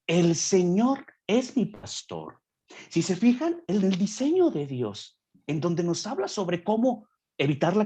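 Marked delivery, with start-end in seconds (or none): 0.1-2.4 slowly weighing mi pastor; slow solemn recitation. Shown as a demonstration. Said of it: "Salmo veintitrés". (recitación lenta y solemne del salmo)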